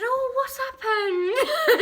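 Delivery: high, slow, laughing mock surprise; giggly put-on concern; feigned innocence. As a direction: play innocent, drawing it out. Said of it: "And I said".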